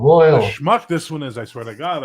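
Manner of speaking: hammed-up Jewish-accent kvetching, starting loud; mock exasperation in a put-on Jewish accent; bad Jewish accent. Co-host griping about his friend, bad Jewish accent. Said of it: "bad Jewish accents".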